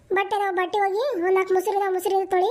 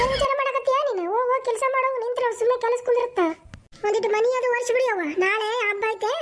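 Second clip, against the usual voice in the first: nagging mother-in-law, raised and rushed; scolding mother-in-law; 3 semitones higher, faster than usual. Acted. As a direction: boss the daughter-in-law around, sharp and quick. Mother-in-law scolds mute daughter-in-law.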